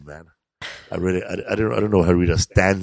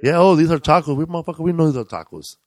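mock hipster; 7 semitones higher than usual. Mocking hipster Chicano talk.

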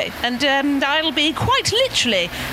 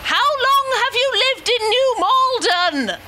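raised, higher, repeated clearly; louder for a deaf man; 4 semitones higher than usual. Real, not acted. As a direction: speak up so he hears.

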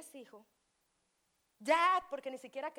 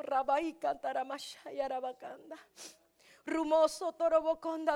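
slow, rolling tongues syllables; speaking in tongues; 2 semitones higher than usual. Real, not acted. Preacher praying aloud in tongues, slow and rolling. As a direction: pour out ecstatic prayer sounds.

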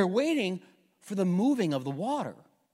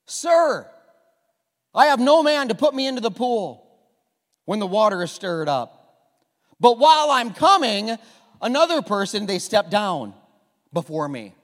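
pleading sick man; 8 dB louder than usual. Acted. Sick man answers Jesus.

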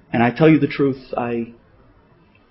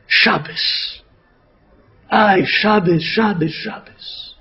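softer, slow, sorrowful sighs; tearful lament; 3 semitones higher, 4 dB quieter, slower than usual. Retold or imitated. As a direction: grieve over the word, voice sinking. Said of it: "he began to cry".

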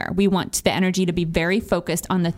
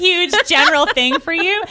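drawn out; 10 semitones higher, 4 dB louder, slower than usual. Acted.

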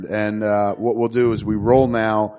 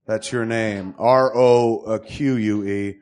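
slow, deliberate reading of a character card; character announcement; slower than usual. Acted. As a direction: present the name like a herald. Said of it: "reads character card slowly".

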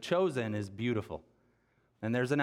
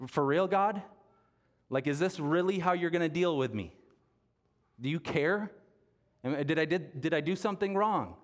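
anguished outcry; 5 semitones higher than usual. Retold or imitated. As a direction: cry out at God, hurt and bewildered. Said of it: "that's exactly how I prayed".

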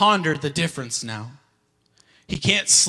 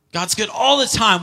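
mock pious cheer; 5 semitones higher than usual. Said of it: "We're just like".

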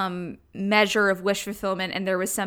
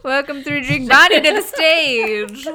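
mock announcer; 4 semitones higher, 5 dB louder than usual. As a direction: welcome a star act to the stage. Mock announcer hyping a persona.

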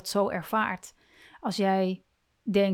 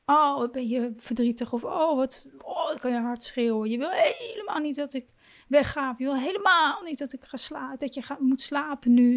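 put-on soothing a child; 3 semitones higher than usual. Shown as a demonstration. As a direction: coax the child kindly, a touch higher. Parent soothing an angry child.

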